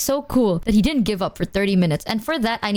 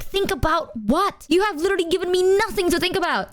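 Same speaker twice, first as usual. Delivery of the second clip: exasperated retort; 6 semitones higher than usual. Retold or imitated. Retold baffled demand.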